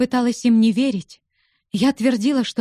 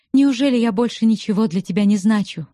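usual speaking voice

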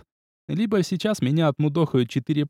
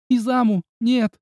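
high, louder shout of his name; cry of alarm; 8 semitones higher, 3 dB louder, slower than usual. A narrator's reading. A girl screams for Izamu to stop, high and loud. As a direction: scream no at him. Someone cries out to him.

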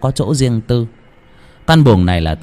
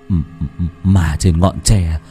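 stammering fright. Acted. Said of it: "run cầm cập".

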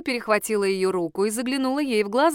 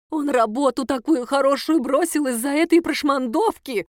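blurted out; 5 semitones higher, 3 dB louder than usual. Acted. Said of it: "выпалила она".

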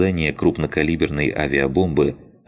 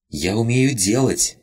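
higher, proud little announcement; solemn rabbit voice; 8 semitones higher than usual. Acted. Rabbit solemnly boasting to Lina, higher voice. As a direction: declare it grandly like a tiny spirit. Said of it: "торжественно произнёс кролик".

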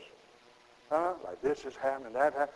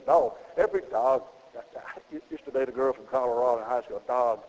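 Colorado dog; 4 semitones lower than usual. Retold or imitated. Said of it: "that's how she said it".

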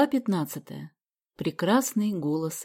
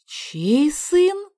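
higher, louder stunned cry; both parents exclaiming together; astonished exclamation; 9 semitones higher, 7 dB louder than usual. Acted. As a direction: blurt it out in shock. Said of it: "в один голос воскликнули".

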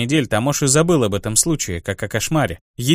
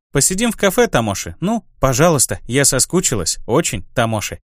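breathy pleading. Acted. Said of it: "сказала она с придыханием".

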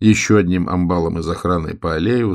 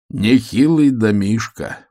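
impressed whistle; 4 semitones higher, 4 dB louder, slower than usual. Acted. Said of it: "присвистнул Вячеслав".

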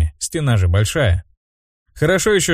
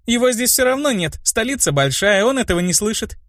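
put-on high, girlish protest, mildly shouted; calling back; 12 semitones higher than usual. A narrator's reading. Brunette fleeing her angry friend, high mild yell. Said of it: "кричала она".

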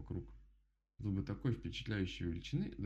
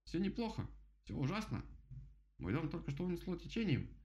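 higher, whiny despair of a drenched bird; despairing woodpecker; 10 semitones higher than usual. Acted. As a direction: wail about your lost home. Woodpecker despairs about his home.

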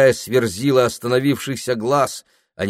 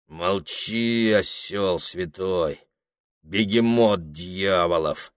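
rough jagged voice; 4 semitones lower, 6 dB quieter, slower than usual. Acted. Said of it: "шершавым в зазубринах голосом".

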